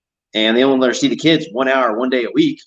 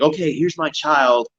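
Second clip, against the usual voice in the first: mock compliance; 5 semitones higher than usual. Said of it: "no one's gonna rush and like".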